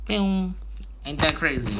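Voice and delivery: high, excited "can you believe it"; amazed. Real, not acted. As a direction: pitch up in delighted wonder. Amazed aside after explanation.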